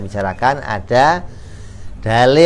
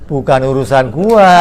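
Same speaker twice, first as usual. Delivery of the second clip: louder curt brush-off from the idol; dismissive idol; 6 dB louder than usual. Acted. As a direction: shrug them off, not my problem.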